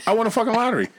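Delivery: hammed-up victory shout; mock triumphant announcement. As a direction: announce the win to the room. Imagined announcement of lottery win.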